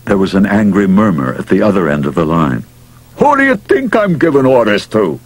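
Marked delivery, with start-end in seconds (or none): 3.2-5.2 high, irritated challenge starting at the top; indignant demand. A narrator's reading. Manager challenging his grumbling boss by phone, demanding. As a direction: throw the question back, pitched up and affronted. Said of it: "Mouth demanded".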